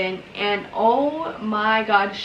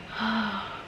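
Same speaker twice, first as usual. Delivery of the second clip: deep relieved sigh; 8 dB quieter than usual. Retold or imitated. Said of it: "like, a huge deep breath".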